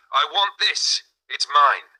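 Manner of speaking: high, loud greedy cry; screaming. A narrator's reading. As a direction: shout it like a grabbing child. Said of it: "screamed in her heart".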